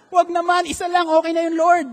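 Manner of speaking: comic plea to the Lord. Real, not acted. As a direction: beg the Lord to stop, half laughing. Pleading with God, joking.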